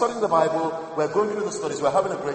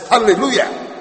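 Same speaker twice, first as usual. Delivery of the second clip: a higher, louder joyful hallelujah; mock hallelujah; 5 semitones higher, 5 dB louder than usual. Preacher retells cheering his account deletion, joyful. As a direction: cheer it like good riddance.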